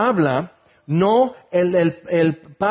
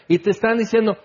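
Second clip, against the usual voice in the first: normal talking voice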